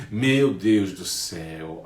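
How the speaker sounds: slow, drawn-out mock dismay; mock concerned shock. Friends reacting to news of a firing, mock concerned shock. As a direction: draw it out as an acted shocked reaction. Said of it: "Olha a entonação como já muda".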